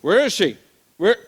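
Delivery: mildly acted panic over a missing child; alarmed parent. Father missing child in story.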